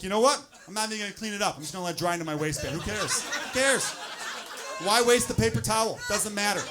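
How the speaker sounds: mildly hammed-up indignation; mad. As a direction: act huffy and done caring. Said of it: "You get, like, mad about it".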